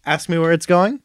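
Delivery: hammed-up Polar Express conductor; Tom Hanks screaming. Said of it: "really good Tom Hanks screaming".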